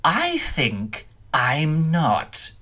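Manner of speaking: slow, scornful "I think I'm not" from a strange voice; the vampire scorns the clown, slowly and coldly. Acted. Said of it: "A look of scorn came".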